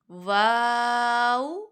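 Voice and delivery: واو held long; letter name, drawn out. Shown as a demonstration. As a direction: hold واو for its full length. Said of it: "ہر حرف کی مقدار پوری کرنی ہے". (واو کھینچ کر)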